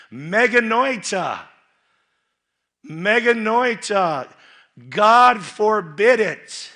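high, slow, loud proclamation of meganoita; preacher thundering the apostle's refusal; emphatic Greek reply. Shown as a demonstration. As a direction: ring out meganoita like a verdict.

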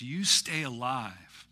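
lightly voiced movie quote, drawn out; understated parting plea, slow; a hint of a film hero, said slowly; Hawkeye. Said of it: "and he says".

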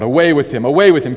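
loud, building crowd shout. A narrator's reading. Crowd shouting at Pilate to take Jesus away, loud and building. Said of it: "they cried out".

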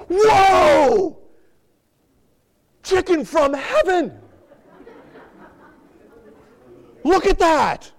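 high, loud, giddy creature voice; excited crab voice. Acted. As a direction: squeal with greedy delight. Crab voiced excited over chicken.

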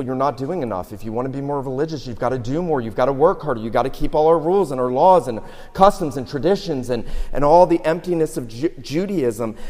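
scolding Pharisees. Retold or imitated. Pharisees lecturing the people.

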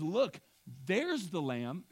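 excited exclamation. Acted. Excited retelling of John.

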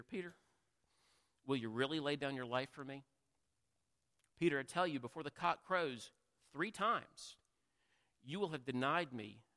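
a touch of gentle Jesus, understated. Acted. Jesus gently answering Peter, a touch of tenderness. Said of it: "he gently says to Peter".

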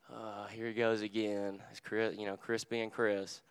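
slow, resigned, softened sigh of a voice; mock exasperation. Pastor voicing Jesus tired of Chris, slow mock exasperation. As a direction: act mildly fed up, dragging the words.

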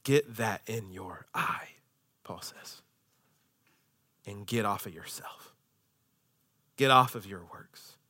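very soft, low, slow; hushed appeal. Real, not acted. Preacher to the church after the cross, hushed appeal. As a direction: drop almost to a whisper and urge gently.

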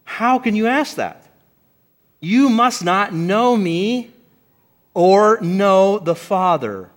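exasperated. Retold or imitated. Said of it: "And he's like".

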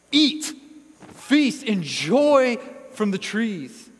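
loud, high, exuberant command; emphatic. Acted. Preacher voicing God's generous invitation, emphatically proclaimed. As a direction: belt it out slowly, a lavish invitation. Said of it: "This is an emphatic".

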